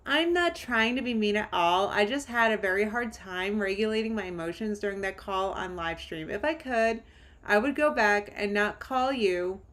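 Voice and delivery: a lightly put-on voice for Amber's apology text. Reading Amber's message to Alexis, lightly voiced as Amber. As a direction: read it lightly as Amber, mock-calm. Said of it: "I'm just gonna use Amber's voice".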